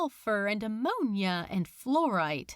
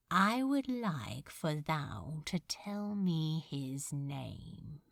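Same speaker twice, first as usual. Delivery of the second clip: curt; 5 semitones lower, 6 dB quieter, slower than usual. Acted. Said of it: "he said shortly".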